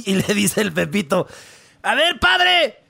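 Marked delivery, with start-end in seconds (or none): 1.8-2.8 put-on boy questioning priest. Pepito interrogates priest.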